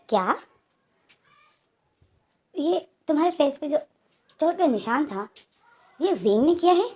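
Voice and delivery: can't believe what he just heard; shocked disbelief. Retold or imitated. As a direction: friend hears John was hurt by Wing, shocked rising question. Lan Jan hears shocking news.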